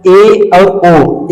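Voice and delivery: ए and ओ drawn out slowly; teacher showing mouth shape; slow vowel demo. Shown as a demonstration. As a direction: stretch each vowel to show the lips. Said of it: "दिखाई दे रहा है क्या?".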